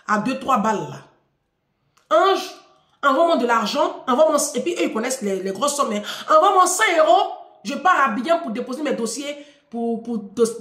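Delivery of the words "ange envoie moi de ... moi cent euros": mock abrupt money request; curt demand. Father demanding money by message without a greeting, curt. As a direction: imitate dad firing off a blunt demand. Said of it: "il m'envoie un message".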